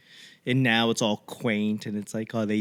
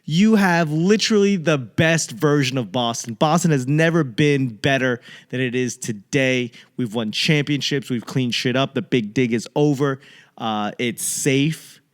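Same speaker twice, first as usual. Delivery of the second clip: heated rant; 3 semitones higher, 4 dB louder than usual. Retold or imitated. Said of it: "I go".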